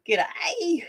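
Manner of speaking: high, drawn-out Aussie G'day; Australian accent. Shown as a demonstration. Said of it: "get you saying it".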